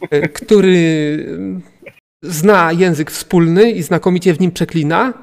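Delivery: grand auctioneer announcing the final lot. Acted. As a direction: present the star lot with flair. GM presents the goblin.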